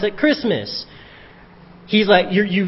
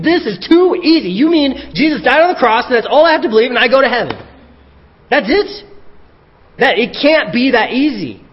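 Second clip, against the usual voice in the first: much higher, louder, fast incredulous scoffing; mock sceptic; 7 semitones higher, 5 dB louder than usual. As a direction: imitate people who think it's too easy. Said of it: "Have you heard people say".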